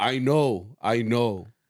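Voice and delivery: mock-stern, loud voice. Speaker retells what he said when he turned around, imitating a stern voice. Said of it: "he said it like in a stern voice".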